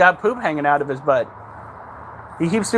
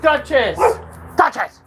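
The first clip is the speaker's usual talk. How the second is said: calling out; 7 semitones higher than usual. Real, not acted. Calling dog.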